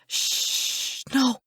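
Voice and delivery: worried, tender coaxing; anxious soothing. A narrator's reading. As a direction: hush him and keep him with you. Hushing her dying brother.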